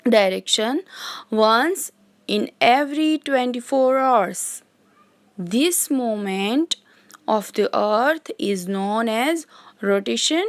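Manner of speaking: very slow, spaced-out reading of a definition; dictation. Shown as a demonstration. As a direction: dictate each phrase so the class can write it. Teacher dictating English definition. (बहुत धीमे, रुक-रुक कर लिखवाना)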